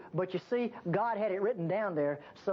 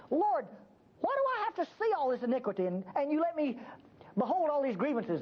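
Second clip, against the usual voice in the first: pleading prayer; 6 semitones higher than usual. Retold or imitated. Worker's prayer voiced.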